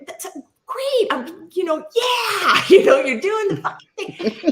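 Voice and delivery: high-pitched mock-enthusiastic praise, breaking into laughter; sarcastic cheering. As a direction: cheer him on sarcastically, voice shooting way up. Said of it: "I was being sarcastic".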